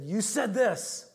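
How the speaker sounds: slow, mildly heated mock accusation; imitated angry accusation. Deacon confronting his pastor in the office, mildly angry. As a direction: retell an angry charge, drawn out. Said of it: "He was so angry at me".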